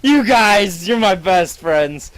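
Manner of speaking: high, loud gushing with a laugh; hammed-up affection for tiny friends; giddy delight. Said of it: "you're having a good time".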